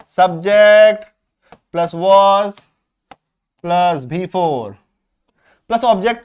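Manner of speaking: each part set apart by pauses, very slow; slow dictation. Shown as a demonstration. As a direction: dictate the formula piece by piece. Teacher dictating the structure.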